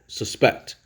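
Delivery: suspect said sus-PECT, the verb; stress on second syllable. Shown as a demonstration. Teacher demonstrating the verb suspect, accent on the second syllable. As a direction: lean on PECT in suspect, weak first syllable. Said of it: "the accents on the second syllable".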